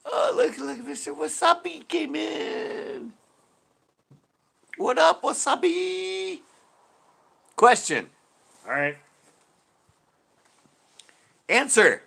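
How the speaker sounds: very high, slow, put-on Asian accent with loud clipped one-word lines; high sing-song mock Asian accent, hammed up. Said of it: "talking like an Asian man".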